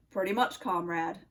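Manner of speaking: put-on low-pitched Russian-accented nutcracker; deep Russian accent, a sentry's challenge. Nutcracker questions Oscar on the tree, low Russian accent. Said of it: "said the Nutcracker".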